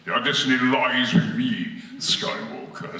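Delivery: lightly booming megaphone menace; Darth Vader. Acted. Storyteller shows an audience Vader on the megaphone, mock menace. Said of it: "Vader is on a megaphone".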